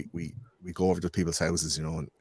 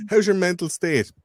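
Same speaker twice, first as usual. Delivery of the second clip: mock inquiry; 11 semitones higher, 4 dB louder, slower than usual. Acted exchange about wellbeing.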